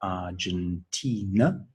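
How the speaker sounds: Argentina slowly broken into four syllables. Shown as a demonstration. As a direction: count out Ar-gen-ti-na, rising at the end. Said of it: "ask how many syllables".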